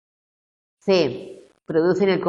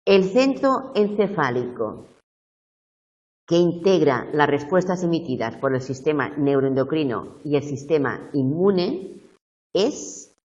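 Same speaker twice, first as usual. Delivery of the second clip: measured, slowed read-out with pauses. Shown as a demonstration. Teacher reading an exam question for those who can't see it, slowly. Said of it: "yo lo leo despacito".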